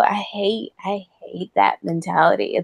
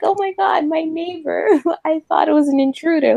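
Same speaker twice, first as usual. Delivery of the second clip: high, fake-polite mock voice; mocking a northern neighbor; 7 semitones higher than usual. Mocking a nosy northern neighbor, high and fake-sweet. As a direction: play the fake-friendly neighbor. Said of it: "'cause they'll be like".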